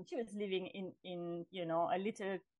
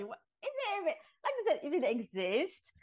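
laughing disbelief; 8 semitones higher than usual. Retold or imitated.

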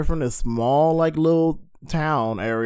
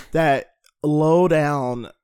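mock Southern drawl; 4 dB louder, much slower than usual. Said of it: "stereotypical Southern accent".

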